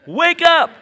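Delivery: sudden full-voice shout, high; a preacher's rousing cry; shouted command. Acted. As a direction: jolt them awake with a yell. Preacher repeating the shouted call.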